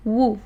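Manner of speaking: وو with rounded lips, w not v; drill demo. Shown as a demonstration. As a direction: model the syllable for students. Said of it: "حرکات ثلاثہ کے ساتھ دیکھتے ہیں".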